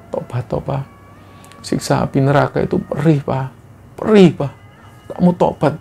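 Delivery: a dead wife in a dream, weeping as she begs her husband to repent; tearful pleading. Acted. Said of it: "sambil nangis sesungguhan dia bilang".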